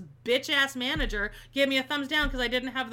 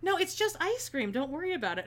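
a hint of a breezy British guy, higher on "No"; 6 semitones higher than usual. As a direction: shrug it off lightly like the customer. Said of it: "And then he goes".

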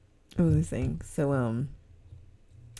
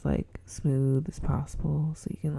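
smooth podcast voice. Shown as a demonstration. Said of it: "I'm gonna try to talk as".

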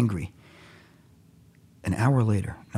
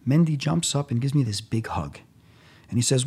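ordinary talk

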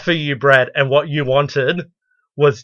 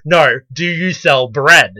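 pushier, louder customer; 5 dB louder, slower than usual. Retold or imitated. Customer presses the question again.

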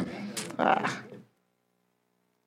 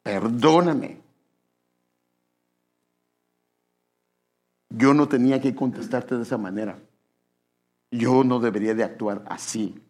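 humble apology. Acted. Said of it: "lo correcto es".

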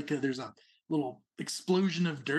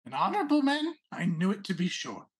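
lightly raised, pompous little prince; a hint of a haughty rabbit noble; 4 semitones higher than usual. Prince approves.

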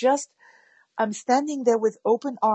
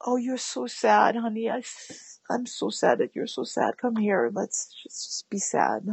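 mirroring sadness. Acted. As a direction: hush down and share their sadness gently. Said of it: "a little bit of an actor".

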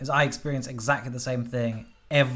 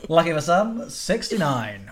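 bingo caller; 3 semitones higher, slower than usual. Retold or imitated. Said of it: "pull out a number and go".

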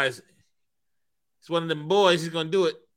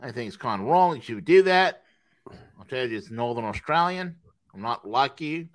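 put-on Northern Australian accent; lightly hammed-up Australian accent. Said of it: "my Australian accent".

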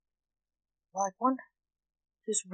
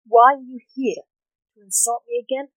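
higher, louder aggrieved complaint; indignant moan; 4 semitones higher, 6 dB louder than usual. A narrator's reading. Doctor challenging a visitor who insults him, moaning. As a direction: complain as if picked on, pitch lifted. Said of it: "moaned Doctor Alexander".

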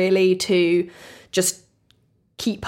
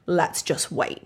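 quiet caution; 5 semitones lower, 7 dB quieter, slower than usual. Retold or imitated. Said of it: "Richard is still like".

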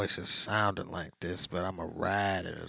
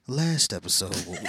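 host character voice; 5 dB louder than usual. Pretend. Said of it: "Let me get into character".

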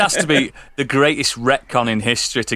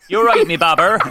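Bristol accent; 3 semitones higher, 3 dB louder than usual. Shown as a demonstration. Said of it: "That's it".

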